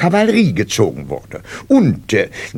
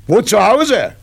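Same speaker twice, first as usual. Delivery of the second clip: clipped nasal officer; 7 semitones higher, 4 dB louder than usual. Acted. Sergeant questions new recruit.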